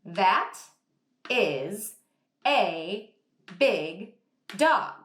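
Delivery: "That is a big dog" said one word at a time; robotic word-by-word reading; choppy word by word. Shown as a demonstration. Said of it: "I would not say it like that".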